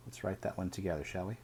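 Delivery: ordinary delivery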